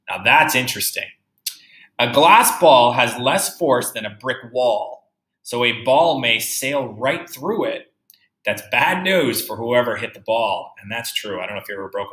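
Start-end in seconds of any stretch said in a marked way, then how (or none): 2.0-7.9 slow, careful read-aloud; reading a picture book to a class; reading to children. Acted. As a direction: read the book slowly for young kids.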